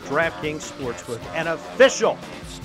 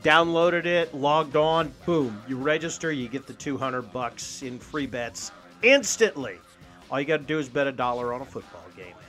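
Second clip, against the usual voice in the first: upbeat radio ad read. Acted. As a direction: sell it like a sponsor spot. Host reads sponsor ad.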